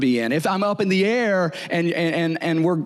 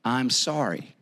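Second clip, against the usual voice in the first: sincere apology; slower than usual. Shown as a demonstration. Preacher models a kinder apology for the congregation, slow and gentle. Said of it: "you can say it like this".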